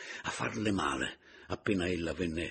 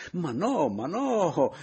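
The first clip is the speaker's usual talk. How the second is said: loud, high cries of protest; agitated "no, no", voice raised; exclaiming protest; 11 semitones higher, 9 dB louder, much slower than usual. A narrator's reading. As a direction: exclaim it in dismayed objection. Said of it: "esclamò Paleari".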